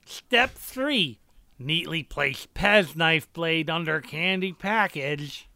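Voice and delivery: NPC voice. Acted. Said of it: "my N P C voices".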